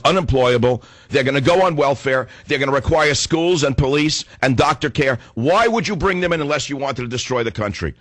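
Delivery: high, outraged rhetorical questions; indignant rant. Real, not acted. Indignant rant about refugee policy.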